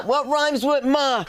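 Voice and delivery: drawn-out mock-quizzing; slow teasing. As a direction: drag it out to tease the crowd. Host playing to the crowd.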